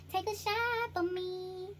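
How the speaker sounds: mock drunk uncle. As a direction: beg for a drink slowly.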